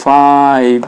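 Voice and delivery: teacher slowing to show আউ; slow demo. Shown as a demonstration. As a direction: slowly spell out the আউ sound. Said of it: "এভাবে সাউন্ডটা করতে হবে". (ধীরে আউ ধ্বনি দেখানো)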